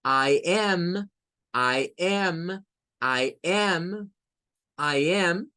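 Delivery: "I am" repeated with a clear ai glide; "I" sliding from ah up to ee each time; teacher drilling "I am" with the jaw going down and up; drilled I am. Shown as a demonstration. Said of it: "Sube y baja".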